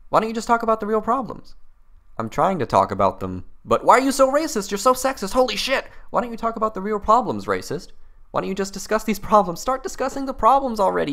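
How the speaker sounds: mock shrill accuser. Parodying the critic's own question.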